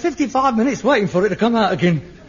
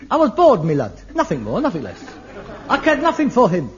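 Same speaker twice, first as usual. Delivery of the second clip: gloating villain; 4 semitones higher, faster than usual. Pretend. Fantasy of a murder trial.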